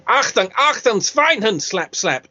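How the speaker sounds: lightly hammed-up German war-film commands. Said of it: "crossover point in the war films".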